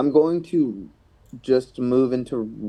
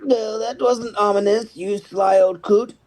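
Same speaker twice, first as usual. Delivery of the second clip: higher-pitched mock indignation; sarcastic retort; 9 semitones higher, slower than usual. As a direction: call after the mentor in raised, teasing pitch. In-character retort to cryptic mentor.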